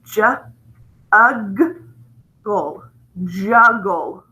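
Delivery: "juggle" sounded out in pieces, J, ug, gle, then blended. Shown as a demonstration. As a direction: break "juggle" into its sounds, pause, then say it whole. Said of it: "So let's pronounce this word".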